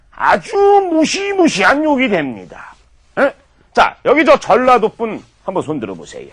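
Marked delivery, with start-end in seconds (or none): 0.1-2.7 mock-dramatic warning. Comedic lecture punchline.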